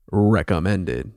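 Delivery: "recommended" drawn out slowly, in audible air quotes; slow, pointed "recommended" as a dubious quote; air-quoted emphasis. Real, not acted. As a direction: set "recommended" apart and stretch it sceptically. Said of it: "Big air quotes".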